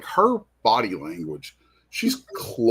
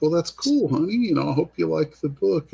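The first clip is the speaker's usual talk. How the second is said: retold in a higher, kindly voice; gently encouraging; 7 semitones higher than usual. Author reassuring a shy girl at his booth, gently encouraging. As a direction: lift the pitch to put a shy kid at ease.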